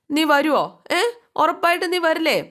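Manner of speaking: high, hopeful disbelieving plea; eager pleading mother. Retold or imitated. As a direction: beg him to promise, hoping hard. Mother eagerly begs son. (ആകാംക്ഷയോടെ കെഞ്ചുന്ന അമ്മ)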